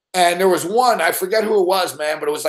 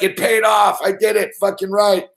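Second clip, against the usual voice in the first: retold triumph; 3 semitones higher than usual. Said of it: "I'm like".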